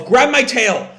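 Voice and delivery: high, loud call for help. Retold or imitated. Tangle calling to Belle in the rapids, high loud call. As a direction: shout it over the roaring river. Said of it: "Tangle calls".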